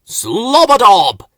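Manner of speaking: loud, slow eureka burble; excited flowerpot gibberish. A narrator's reading. Both men hitting on the idea, loud excited gibberish. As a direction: shout the idea out together. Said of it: "they said together".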